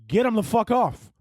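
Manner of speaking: high, drawn-out order; mock alarm. Passenger accusing baby of taking over the plane, mock alarm. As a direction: call it out slowly and high.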